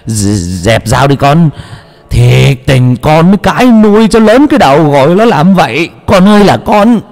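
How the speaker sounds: high, rising, desperate wail; mother crying out to her son; frightened pleading mother. A narrator's reading. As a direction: beg the son to drop the knife.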